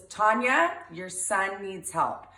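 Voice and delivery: mock-grave repeated phone warning. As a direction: drag out the ominous message. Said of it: "He goes".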